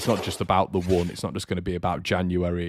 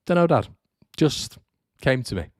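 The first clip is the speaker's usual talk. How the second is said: higher, sheepish shrugging answer; sheepish reply; 5 semitones higher than usual. Retold or imitated. Son answering his dad's question sheepishly. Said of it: "my dad said".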